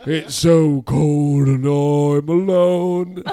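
very slow, mournful mock lament; slow mock-sad voice; Greenlander voice. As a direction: moan it like a Michael Caine lookalike. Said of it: "we said a little something like this".

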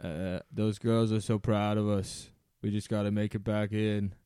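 lightly voiced Boston accent as Rob; a touch of Boston in the vowels. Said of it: "in your Boston accent".

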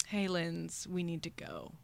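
quiet, measured inner nudge; talking stomach. Retold or imitated. Her stomach warns her mid-flirting, quiet talking-stomach voice. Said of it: "my stomach just goes".

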